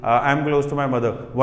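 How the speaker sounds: slow, low student reply; hesitant short answer. Shown as a demonstration. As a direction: drag it out like an unsure student. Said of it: "One word answer".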